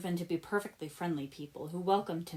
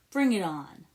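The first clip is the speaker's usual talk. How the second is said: put-on defiant kid; 7 dB louder than usual. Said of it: "puffing out his chest".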